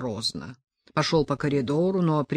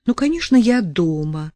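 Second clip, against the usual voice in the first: calling out; 3 semitones higher, 6 dB louder than usual. A narrator's reading. Sasha calls from behind wall.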